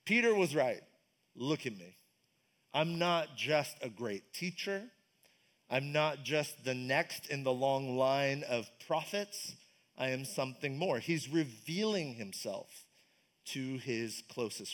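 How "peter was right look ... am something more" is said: hushed, slowed declaration; Jesus speaking. Retold or imitated. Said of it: "Jesus' opportunity to essentially say".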